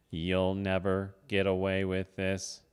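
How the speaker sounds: Batman voice. Pretend.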